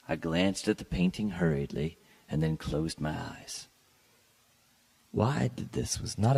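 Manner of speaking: measured, lightly dramatic reading of a gothic tale; story narration. A narrator's reading. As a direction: read it like a classic gothic story, unhurried. Reads Poe story aloud.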